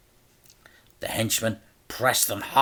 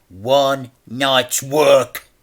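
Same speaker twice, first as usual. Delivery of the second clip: menacing whisper; 4 semitones higher, 7 dB louder, much slower than usual. A narrator's reading. Crime boss whispers to the debtor, menacing.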